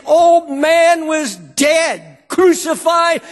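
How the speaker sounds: high ringing cry of crucified; preaching shout. Real, not acted. Preacher proclaiming the cross to the congregation, shouting. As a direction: belt out crucified at the peak.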